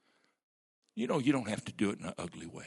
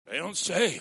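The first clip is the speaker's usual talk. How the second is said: emphatic preaching; 10 semitones higher, 10 dB louder than usual. Real, not acted. Preacher repeats emphatic point.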